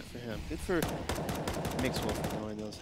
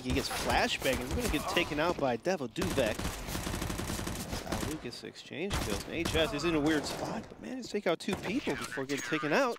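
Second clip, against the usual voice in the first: lively, higher-pitched round call; live play-by-play; 4 semitones higher than usual. Real, not acted. Co-caster praising team effort, animated play-by-play. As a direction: call the kills with rising energy.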